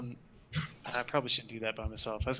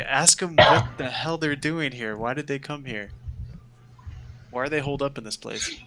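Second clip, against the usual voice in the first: whisper yell; 4 dB louder than usual. Retold or imitated. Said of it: "whisper yell down to them".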